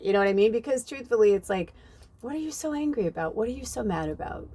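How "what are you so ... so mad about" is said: much higher, baffled disbelief; wide-eyed, puzzled question; incredulous. Acted. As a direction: ask it like you truly can't understand. Baffled at angry drivers.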